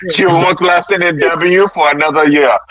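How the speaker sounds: mock sarcastic concession. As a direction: imitate a fed-up debater pretending to agree. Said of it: "He gets sarcastic".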